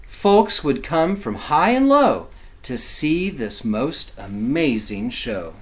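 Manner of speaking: slowed, rhythmic picture-book reading; slow storybook reading. A narrator's reading. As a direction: draw the kids into the big finish.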